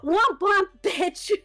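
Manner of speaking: "Womp womp" sneered at them; mocking taunt. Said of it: "smacked the phone out of their hand and then said".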